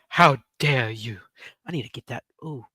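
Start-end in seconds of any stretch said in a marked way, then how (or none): 0.1-1.2 slow, low, outraged how dare you; lightly voiced accusing activist; Greta impression. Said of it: "as Greta would say".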